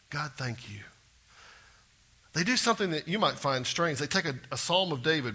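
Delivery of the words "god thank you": soft unvoiced thanks to God; whispered prayer. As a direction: breathe it like a private prayer. Disciples quietly thank God.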